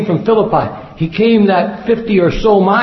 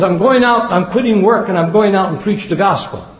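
eager would-be preacher; 2 semitones higher than usual. Retold or imitated. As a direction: announce the plan as the would-be preacher. Eager preacher's answer retold in anecdote.

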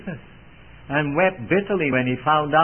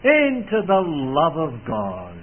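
slow prayer; 3 semitones higher, slower than usual. Acted. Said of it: "the apostle prays".

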